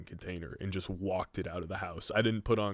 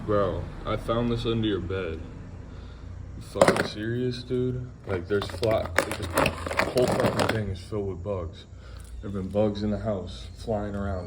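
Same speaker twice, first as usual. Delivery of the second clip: louder, hammed-up angry rant at the roommate; furious rant impression; 6 dB louder than usual. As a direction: rip into him like you've lost it. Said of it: "that was a bitchy impersonation".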